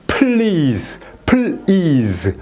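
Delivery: "please" drawn out, pl then long ease; correct pronunciation. Shown as a demonstration. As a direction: demonstrate "please" slowly with a single clear L. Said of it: "이렇게 발음을 해야 된다 이거죠".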